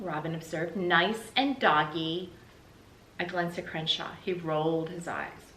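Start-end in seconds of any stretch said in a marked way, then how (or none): 0.8-2.3 put-on slow sleepy child. Sleepy little sister.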